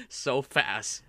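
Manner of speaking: drawn out through a laugh. Real, not acted. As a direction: laugh while stretching it out slowly. Both crack up at mood switch.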